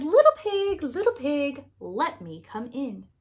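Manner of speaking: loud, high call that settles by the end; wolf calling out. A narrator's reading. The wolf calls loudly through the first pig's door. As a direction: sing it out to the pig at the door.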